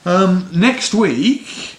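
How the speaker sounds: drawn-out hyped ring announcer; boxing ring announcer. Pretend. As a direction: stretch it like a fight-night MC. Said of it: "I'm still doing the boxing announcer voice".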